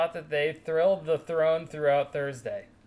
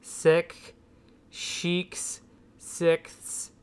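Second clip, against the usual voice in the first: slowly read; much slower than usual. Shown as a demonstration. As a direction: read the twister slowly, word by word. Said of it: "I'm gonna read it slowly for you".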